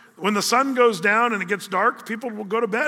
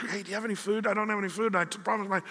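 softer, sheepish plea; hushed midnight ask; 6 dB quieter, faster than usual. Retold or imitated. Host begs the next-door neighbor for food at midnight, hushed and sheepish. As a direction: ask quietly so you don't wake the house.

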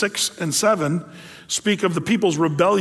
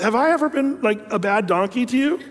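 talking donkey; 4 semitones higher than usual. Retold or imitated. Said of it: "the donkey turns around and says".

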